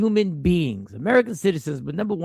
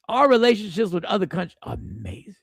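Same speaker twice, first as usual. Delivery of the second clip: sarcastic. Real, not acted. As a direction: mutter it as dry irony. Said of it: "I'm being facetious".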